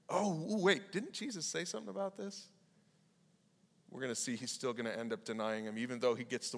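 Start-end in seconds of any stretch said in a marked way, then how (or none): 0.1-2.5 mock dawning realization, higher; a touch of alarm as it clicks; realizing. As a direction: Peter catching on, lightly voiced. Peter's inner realization, acted.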